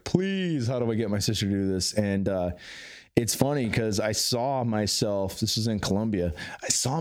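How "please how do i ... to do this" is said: begging. Retold or imitated. Man begging in ceremony for his sister to join, pleading. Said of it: "I was just begging in ceremony".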